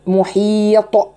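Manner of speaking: محيط slow, final ط bounced; qalqala demo. Shown as a demonstration. Teacher shows qalqala at a stop. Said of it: "موقوف عليه زي مثلًا".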